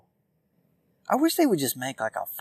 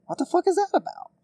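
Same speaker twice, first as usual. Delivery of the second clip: much higher, louder, near squeal; incredulous outburst; 3 dB louder than usual. Real, not acted. Ranting podcaster repeating himself louder, incredulous outburst. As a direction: push the disbelief over the top. Repeats the rant question, escalating.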